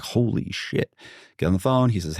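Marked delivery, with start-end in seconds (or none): 0.0-0.9 breathy whispered curse; whispered shock. Retold or imitated. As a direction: hush it in disbelief. And I was like.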